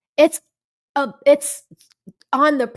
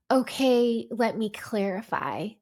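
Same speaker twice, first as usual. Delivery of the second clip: model apology; 7 dB quieter than usual. Acted. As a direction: act out a calm climb-down softly. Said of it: "conversation would have moved into a better space".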